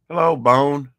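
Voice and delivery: bright squeaky hello; high loud greeting. Acted. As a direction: call out high to the pet. Greeting the cat loudly.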